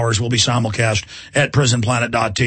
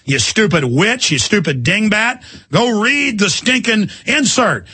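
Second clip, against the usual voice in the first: angry rant; 5 semitones higher, slower than usual. Real, not acted. Ranting insult at housewives.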